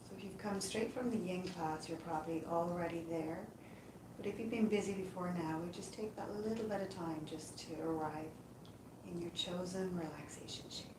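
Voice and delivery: calm, unhurried meditation voice with long pauses; guided yoga nidra. Acted. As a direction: guide them gently into rest, leaving space between phrases. Leads a yoga nidra relaxation.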